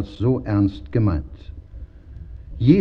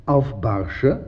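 grinning. A narrator's reading. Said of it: "grinste der Barsch".

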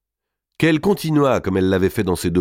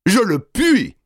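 high, loud, firm reply; 14 semitones higher, 4 dB louder, slower than usual. A narrator's reading. Robert answers the king firmly, high and loud. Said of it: "dit fermement Robert".

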